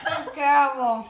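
loud, laughing disgust. Real, not acted. Tasting old cheese.

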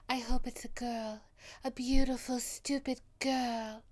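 hushed wish slowing on the last words; soft Daisy. Retold or imitated. Quoting Carey Mulligan's Daisy, soft and dreamy. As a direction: breathe the hope out dreamily. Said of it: "she's so soft".

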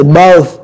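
"both" ending in pure breath on TH; voiceless TH. Shown as a demonstration. Teacher showing air only, voiceless TH. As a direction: finish "both" with an unvoiced TH. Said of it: "cái hơi đó, chỉ đưa nó ra thôi".

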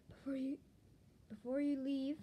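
loud, forceful call back; yelled. Acted. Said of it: "it yelled back".

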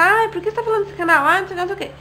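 a light whiny mock of a nagging commenter. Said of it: "uma pessoa comenta".

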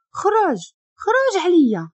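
shouting get out. Acted. Angry woman orders him out.

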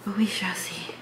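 whispered aside to herself. Real, not acted. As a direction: breathe it out as a whisper. Drunk, musing about the club.

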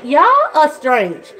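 slow, deadpan; slow mock-exasperated aside; dry remark. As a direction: drag it out, amused at the kids. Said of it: "And I'm like".

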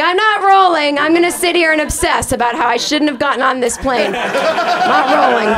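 mock stubborn passenger refusing to join; stubborn refusal. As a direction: dig in and refuse with a laugh. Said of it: "and I'm like".

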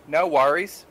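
"No worries" with Kiwi vowels slipping out; casual slip into a Kiwi accent; New Zealand accent on "worries". Acted. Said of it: "drop out of their faux Western accent".

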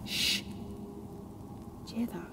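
very soft, unvoiced whisper; hushed whisper. Woman whispering to Martha about voices in the storm. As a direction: barely breathe the words.

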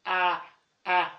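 "آ" like an alef with a fatha; short-a letter sound. Shown as a demonstration. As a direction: say "آ" as an open "ah". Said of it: "شايفين أنا بعمل إزاي؟".

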